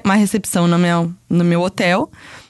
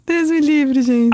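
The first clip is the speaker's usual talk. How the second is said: frightened cry; 7 semitones higher, much slower than usual. Real, not acted. Reacting in fear to ghost story.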